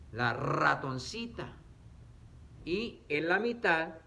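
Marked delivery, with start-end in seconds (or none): 0.1-1.5 slow, with "ratoncita" starting on a long trill; R inicial fuerte. Shown as a demonstration. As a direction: roll the R of "ratoncita" hard, slowly. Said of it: "Al principio suena fuerte". ("ratoncita" despacio, con erre inicial bien vibrada)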